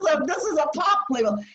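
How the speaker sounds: laughing through the retold line. Telling the interviewer about signing, laughing.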